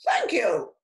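sharp storybook bird voice; squawking parrot. A narrator's reading. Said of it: "squawked Parrot".

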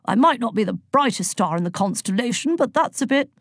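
put-on blustering old-boy protest; mildly huffy jovial god; Zeus, affronted. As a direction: object with wounded dignity. Voices Zeus in the story.

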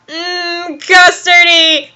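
slow, mock-delighted yum; savouring. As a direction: relish it slowly. Snape savouring the custard.

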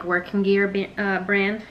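tripping over words. Real, not acted. Vlogger showing a work brand, fumbling the word. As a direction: stumble on the word and restart. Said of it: "I can't speak".

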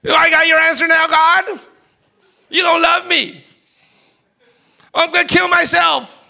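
high, loud despairing shout; mock despair. Despairing believer telling God he is unloved, loud anguished shout. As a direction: shout your hopelessness at God.

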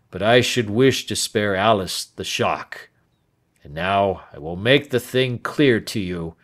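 put-on an old man unburdening a bitter past; a hint of a bitter, hot-tempered old man; Turner confessing. Turner tells his history.

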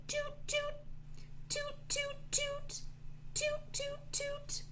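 soft, very high toots; trumpet toots. Pretend. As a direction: imitate a little trumpet. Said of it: "the trumpet goes toot".

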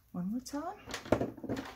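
singsong drawl. Real, not acted. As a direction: stretch it out playfully. Drawn-out singsong repetition.

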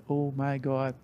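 soft dismayed aside; dread under breath. Retold or imitated. Rookie driver spots the angry team boss, quiet dismayed aside. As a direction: say it quietly, sinking inside.

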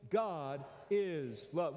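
slow drawn-out unison line; slow call-and-response. Shown as a demonstration. Preacher leading the congregation in a slow response. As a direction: lead the room slowly word by word. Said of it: "Will you say that with me?".

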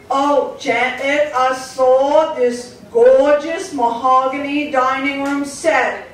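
high, loud, slow British demanding; mother asking for a dining set; demanding mom. Retold or imitated. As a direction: drawl out the royal demand. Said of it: "I call her the Queen".

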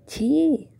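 a loud, high burst of disgust; disgusted yuck. Acted. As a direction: spit out the disgust. Disgusted reaction to suggestion.

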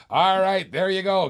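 excited call. Real, not acted.

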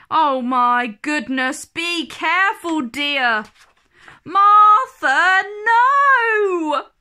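panicked nanny rising to a shout; alarmed nanny. A narrator's reading. Nanny crying out as Martha misbehaves, alarmed shout.

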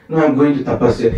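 put-on fast laughing childish retort; laughing boy's reply. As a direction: play the cocky little boy with a laugh. Child Dhruva's stubborn reply.

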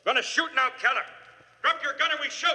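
high, ringing call across the hall. Acted. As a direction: warn the gunman from far away. Inspector calling to cornered gunman.

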